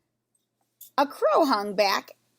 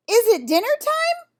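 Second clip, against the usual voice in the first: much higher, louder storybook bellow; 11 semitones higher, 7 dB louder than usual. A narrator's reading. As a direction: bellow it across the hillside. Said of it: "he bellowed".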